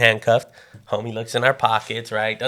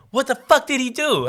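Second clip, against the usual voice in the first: high-pitched mock outrage; outraged mom; 11 semitones higher than usual. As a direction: imitate a mother demanding answers. Mom confronts cop, acted.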